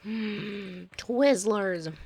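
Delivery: gasp, then a delighted discovery; excited gasp. Retold or imitated. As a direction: act thrilled to find it. Delighted find of hidden snack.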